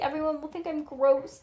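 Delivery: high, mildly acted wail. A narrator's reading. Nancy upset about her wart, high wail. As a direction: wail it with a touch of drama. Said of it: "wailed Nancy".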